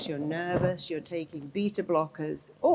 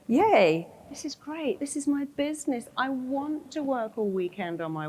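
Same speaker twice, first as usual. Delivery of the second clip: higher, upbeat "yay" cheer; bursting out with a cheer, pitched up; cheerful enthusiasm; 5 semitones higher than usual. Acted. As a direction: act out choosing to be delighted. Acts out the cheerful alternative choice.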